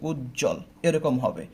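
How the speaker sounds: উজ্জ্বল as উজ then জল, slow; slowly, উজ্জ্বল in two parts; teacher gives উজ্জ্বল split and slow; split pronunciation. Shown as a demonstration. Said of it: "এখানেও থেমে যাচ্ছে".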